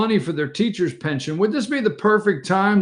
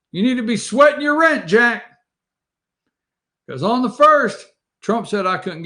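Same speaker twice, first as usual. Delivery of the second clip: higher, pushy landlord warning; cold greedy landlord; 5 semitones higher than usual. Pretend. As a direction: lean on the tenant hard.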